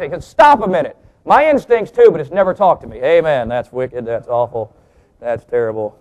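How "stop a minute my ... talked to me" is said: mock objection. Duck objects in joke punchline.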